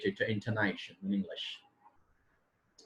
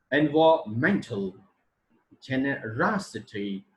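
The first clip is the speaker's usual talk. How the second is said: each word apart, stressed syllable lifted in pitch; word stress demonstration; 3 semitones higher, 4 dB louder than usual. Shown as a demonstration. Teacher listing stress examples, main syllable of each word like "environmental" raised. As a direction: punch the main stress in "explanation", "deliberation", "environmental". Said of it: "two types of trace in English".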